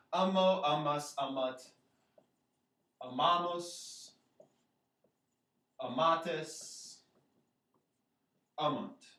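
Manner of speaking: teacher reciting a conjugation, syllable stress marked; emphasis on correct syllable. Shown as a demonstration. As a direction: stress "ma" in "amamus" and "amatis", pausing between forms. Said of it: "put the emphasis on the correct syllable".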